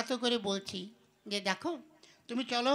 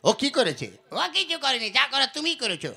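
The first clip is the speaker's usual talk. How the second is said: angry retort; 6 dB louder than usual. Acted. Quarrel with grandfather.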